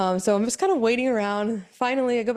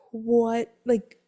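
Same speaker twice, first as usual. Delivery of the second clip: higher, laughing disbelief; stunned disbelief; 4 semitones higher, slower than usual. Retold or imitated. Wife to husband at the ultrasound, laughing disbelief. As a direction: laugh out the shock. Shocked at twin news.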